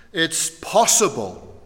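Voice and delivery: possible drawn out slowly and leaned on; slow down and weigh the word possible; careful emphasis on possible; stress on possible. Real, not acted. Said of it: "and I stress the word possible".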